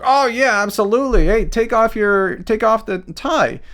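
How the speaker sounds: lightly acted sleepover prankster; mock bully kid. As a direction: imitate a kid egging someone on. Voicing bullies tricking a nerdy kid.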